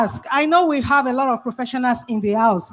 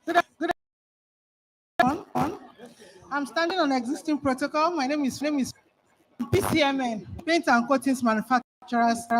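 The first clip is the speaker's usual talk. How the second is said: breathless after running; out of breath, gasping between words; 7 dB quieter than usual. Real, not acted. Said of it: "I'm trying to catch my breath".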